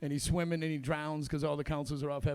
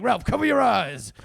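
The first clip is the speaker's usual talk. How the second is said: dad; 4 semitones higher, 9 dB louder than usual. Retold or imitated. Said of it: "He'd be like".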